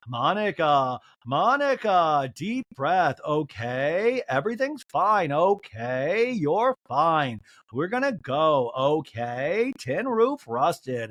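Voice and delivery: drawn-out, coaxing impression; mock soothing. Friend talking down an upset castmate, mock soothing. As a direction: stretch the words as if talking her down.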